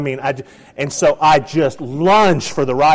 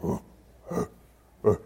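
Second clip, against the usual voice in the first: bear grunts; 6 semitones lower, 8 dB quieter than usual. Retold or imitated. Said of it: "every step he's going".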